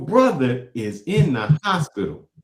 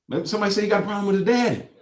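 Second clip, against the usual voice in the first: mocking sarcasm; 7 semitones higher, faster than usual. Mocking the guest's excuse.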